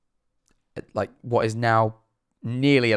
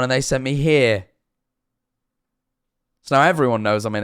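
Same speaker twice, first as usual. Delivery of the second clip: a bit louder, forced to project; loudly embarrassed; 3 semitones higher than usual. Retold or imitated. Telling the check-in desk his symptoms, loudly and embarrassed. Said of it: "hears me have to very loudly say".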